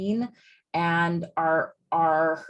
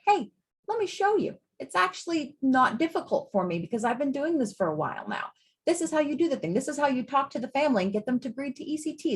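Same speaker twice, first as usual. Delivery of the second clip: friendly teacher; 4 semitones higher, faster than usual. Retold or imitated. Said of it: "you're like".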